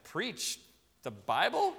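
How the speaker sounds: hesitant questioning reply, voice rising at the end; mock disbelief, pausing before the second half; taken aback. Replying to his preacher's invitation to preach, taken aback.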